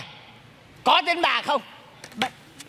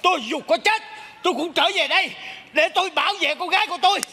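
giả giọng hồn chồng; 4 semitones higher than usual. Acted. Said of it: "sao giống chồng tôi vậy".

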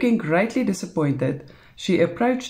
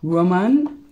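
growled; 4 dB louder than usual. A narrator's reading. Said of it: "he growled".

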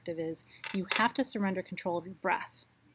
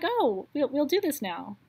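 imitating Shelley; 7 semitones higher, 6 dB louder, slower than usual. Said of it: "She was like".

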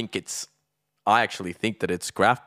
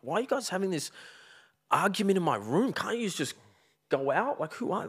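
high, whiny half-asleep complaint; mock annoyed whine; 11 semitones higher, 4 dB quieter than usual. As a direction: whine at them to take it outside. Voicing his own sleepy complaint.

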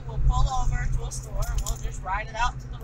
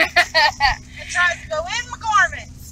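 loud disgusted complaint; 5 semitones higher, 6 dB louder, slower than usual. Real, not acted.

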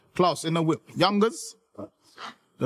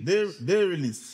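spelled out slowly; slow repeat. Shown as a demonstration. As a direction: say it slowly so he hears.

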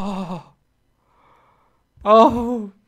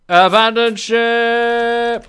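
mock captain; slower than usual. Mock captain cry, drawn out.

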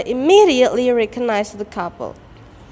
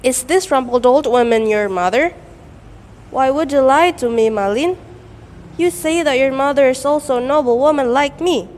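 scornful shout; 2 semitones higher than usual. Acted. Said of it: "spat and shouted at Malin".

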